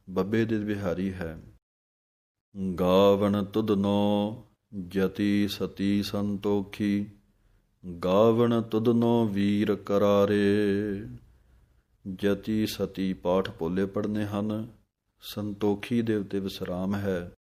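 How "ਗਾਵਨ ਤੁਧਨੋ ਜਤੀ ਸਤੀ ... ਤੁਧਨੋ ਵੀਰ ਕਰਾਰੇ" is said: slow, clear scripture reading with pauses; measured devotional santhya; slow Gurbani recitation. Shown as a demonstration. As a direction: recite line by line for students to follow. Teacher recites verse slowly.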